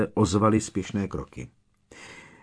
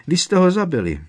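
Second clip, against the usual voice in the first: even higher, louder anguished shriek; rising hysteria; 11 semitones higher, 6 dB louder, faster than usual. Acted. House-elf repeating the accusation, shrill hysterical cry.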